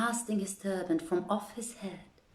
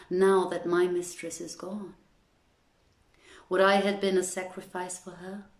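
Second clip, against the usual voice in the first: mock lament. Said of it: "howling and casting dust on my head".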